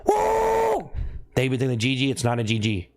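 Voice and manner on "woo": a sudden high cheering whoop; quoted chat woo. Retold or imitated. Streamer reading a viewer's cheer aloud, high whooping shout. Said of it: "Mexer says".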